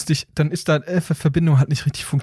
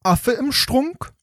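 bad computer voice; 5 semitones higher than usual. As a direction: drag it out like a glitchy speech bot. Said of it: "der schlimmsten Computerstimme Deutschlands".

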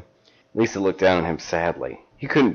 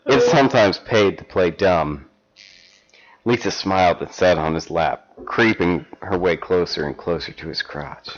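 measured storybook reading; story narration; 4 dB louder than usual. Acted. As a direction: read it like a steamy paperback. Reads erotic fan fiction aloud.

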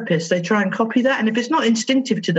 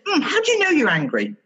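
light, playful therapist curiosity; gently curious; 7 semitones higher than usual. Retold or imitated. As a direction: coax the child to think about it. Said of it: "I just said".

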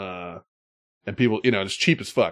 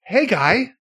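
a mock Boston accent, pitched much higher and pushed; a hammed-up Boston bar greeting; 12 semitones higher, 4 dB louder than usual. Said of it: "try and talk like that".

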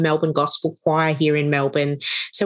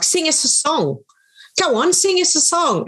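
high-pitched, playful mimicked urging; imitated coaxing; 10 semitones higher than usual. Table guests urging her to sing, imitated coaxing. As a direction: egg someone on, as retold.

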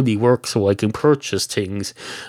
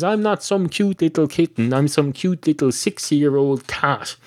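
higher-pitched mock indignation; indignant retort; 6 semitones higher than usual. Cat correcting the barman who called it kitten, mock indignant. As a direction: protest on a raised pitch, mildly hammed-up.

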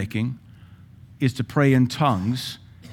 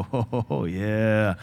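joyful tongues; 2 semitones lower than usual. Shown as a demonstration. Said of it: "You can't help but go".

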